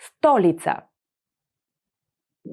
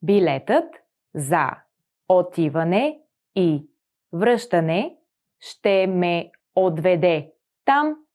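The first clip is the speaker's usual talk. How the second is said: slower, in chunks with pauses; slow model sentence; 3 semitones lower than usual. Shown as a demonstration. Teacher slowing the sentence for the class. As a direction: read it slowly for learners to repeat. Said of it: "slowed sentence for repeating".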